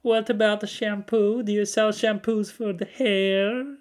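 put-on slow, high Polish-accented questions; drawn-out prank voice, Polish accent. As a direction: ask like an earnest foreign caller in a Polish accent. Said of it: "And I'd go".

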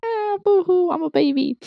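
high, whiny mock boo-hoo; hammed-up high-pitched baby cry; fake crying. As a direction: pretend to bawl like a baby.

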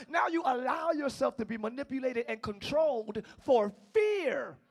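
rhythmic sermon cadence; preaching. Real, not acted. Preacher uprooting fear from the congregation. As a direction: drive each fear line home.

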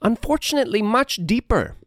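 lightly voiced grand duke; ominous regal speech. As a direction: denounce traitors like a smooth ruler. Duke denounces criminals.

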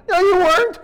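high, loud laughing no; laughing retort. Real, not acted. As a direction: laugh it off as you call them out. Rebuts the churchgoer, laughing.

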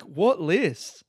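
high, baffled and indignant; incredulous. Retold or imitated. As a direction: act confused, what party?. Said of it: "And I'm like".

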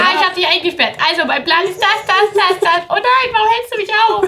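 loud, high cartoon villain; Doofenshmirtz voice. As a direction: gloat like a bumbling villain. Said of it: "Der immer den Plan direkt erzählt".

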